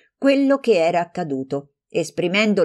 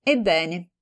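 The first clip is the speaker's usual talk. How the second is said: "Ebbene" flat and casual, no heat; offhand "Ebbene". Acted. Composed friend answering the tirade, offhand. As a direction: shrug off "Ebbene" carelessly. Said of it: "rispose con trascuranza".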